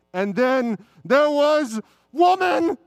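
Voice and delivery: slow, drawn-out proud declaration; dramatic proclamation. Acted. Trina declares her entrance to the audience, slow and grand. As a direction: proclaim it to the heavens.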